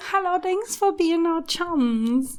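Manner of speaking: very high-pitched, fake British accent. Speaker greeting and thanking the audience: mock British accent. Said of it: "Do you like my British accent?".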